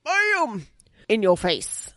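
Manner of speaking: high-pitched sound-effect bam; sudden high exclamation; exclaimed bam. Acted. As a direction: pop it out high, like a comic-book hit. Acting out a striking line.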